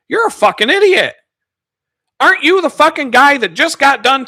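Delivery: loud, high furious retort; angry outburst. Retold or imitated. Yelling at the coworker mocking anti-vaxxers, furious. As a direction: tear into him loudly, outraged.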